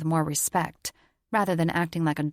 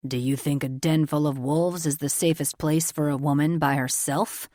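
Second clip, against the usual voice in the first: condescending agent; 2 semitones lower than usual. A narrator's reading. Richter condescending to uncle.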